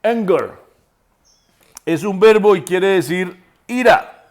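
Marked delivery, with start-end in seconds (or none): 0.0-0.5 "Anger" with its first vowel between A and E. Shown as a demonstration. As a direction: blend A and E at the start of "Anger". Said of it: "entre la A y la E". ("Anger" con vocal entre A y E)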